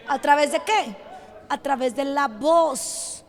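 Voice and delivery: low, soft rhetorical question and answer; hushed repeat. Real, not acted. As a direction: drop right down for emphasis. Same question repeated in hushed drop.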